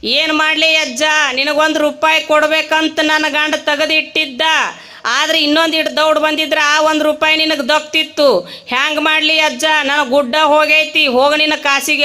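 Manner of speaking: a hint of a widow's wailing song; sing-song wailing. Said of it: "ಹಾಡ್ಯಾಡ್ಕೊಂಡು ಅಳಾಕತ್ತಿದ್ಲು". (ಹಾಡಿನಂತೆ ನಟಿಸಿದ ಅಳು)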